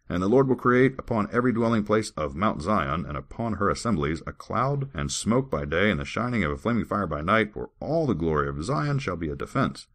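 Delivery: measured recitation of verse; lightly declaimed holy writ; scripture reading. Acted. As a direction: read it out with rising and falling emphasis. Reads scripture aloud.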